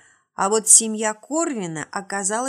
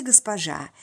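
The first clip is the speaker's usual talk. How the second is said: put-on creaky old man; 3 semitones lower than usual. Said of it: "тотчас проскрипел старик".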